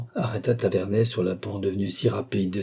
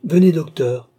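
high, louder kindly call; kindly summons; 7 semitones higher, 7 dB louder than usual. A narrator's reading. Princess calling her doctor to a patient, kindly summons. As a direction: call the doctor over with gracious authority. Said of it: "avec ses bontés charmantes".

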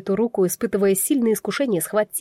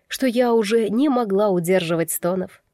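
plain reading voice

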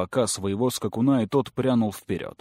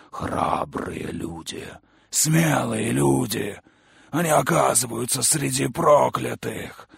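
creature monologue; 3 semitones higher, slower than usual. Acted. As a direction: preach it with dark relish.

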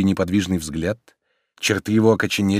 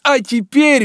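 cheerful; 6 dB louder than usual. A narrator's reading. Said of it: "весело заключил он".

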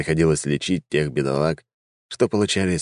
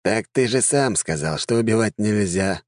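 sad sigh; 4 semitones higher than usual. Acted. Necromancer reminding healer that killing is forbidden, mildly sad. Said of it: "грустно вздохнул некромант".

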